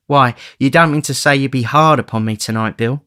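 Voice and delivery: woman pleading with Bill. Acted. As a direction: beg him gently. Nancy pleads.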